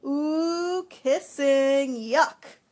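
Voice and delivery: put-on high, loud kid's yelp of disgust; loud childish yuck; yelping little boy. A narrator's reading. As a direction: squeal it like a grossed-out little boy. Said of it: "some little boy hadn't yelped".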